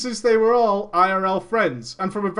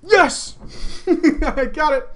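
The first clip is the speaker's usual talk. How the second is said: excited cheering; 7 semitones higher, much slower than usual. Retold or imitated. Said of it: "Big Patty's like".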